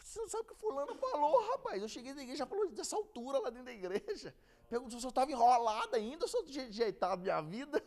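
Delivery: high, put-upon retelling; a hint of an aggrieved friend complaining; imitating the upset man. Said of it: "Aí falando comigo".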